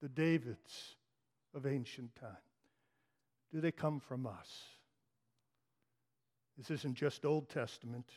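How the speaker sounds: soft, low, intimate sermon voice; hushed preaching. Real, not acted. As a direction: draw them close and speak gently of tears. Quiet intimate sermon passage.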